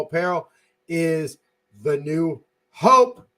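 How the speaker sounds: practiced sign-off plug read; podcast promo read. Real, not acted. Host reminding everybody to support Niner Faithful Radio, promo read. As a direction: run through the show's sponsor plugs like a host. Host reads closing plugs.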